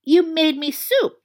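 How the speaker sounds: flat, slow disbelief; deadpan and slow. A narrator's reading. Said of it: "he said flatly".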